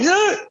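sudden high happy yell; kid's joyful shout. Retold or imitated. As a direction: burst out like an excited kid. Kid shouting out energy.

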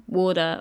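"water" with the T as a soft D; American "water". Shown as a demonstration. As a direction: flap the T in "water" like a D. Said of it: "They come out like a soft D".

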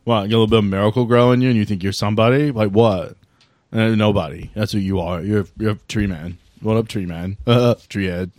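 a lightly voiced bro turned snide, mocking; sulky bro. Vape bro taunting Alex after the name joke, mild sneer. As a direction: sneer at the tree man, half-joking.

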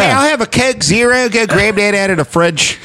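put-on jokey Philly accent order. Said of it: "Philly accent".

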